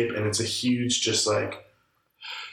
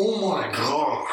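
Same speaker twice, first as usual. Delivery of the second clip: higher, drawn-out exhausted groan of words; retold dismay; 4 semitones higher, much slower than usual. Speaker waking at seven after late gaming, retold dismay. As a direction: stretch it out in mock agony.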